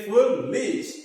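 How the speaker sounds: foolish said slowly, syllable by syllable; drawn-out word. Shown as a demonstration. Teacher to students, reading foolish slowly for claps. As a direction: stretch out foolish for the class.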